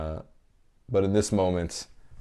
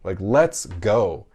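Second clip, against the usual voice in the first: bigger slower cheer; much slower than usual. Retold or imitated. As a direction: stretch it and push harder. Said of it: "I'm like".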